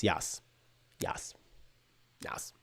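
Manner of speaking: normal talking voice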